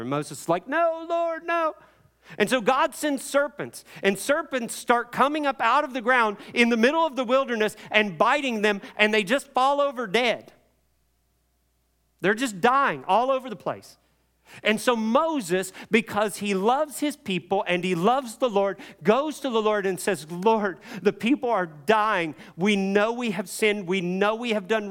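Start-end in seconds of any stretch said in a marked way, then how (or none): 0.7-1.7 high-pitched mock wail; hammed-up pleading, pitched far up; desperate plea. Moses pleading with God, acted. 2.4-20.3 high, driving sermon narration; forceful pulpit storytelling, pitched up; impassioned preaching. Real, not acted.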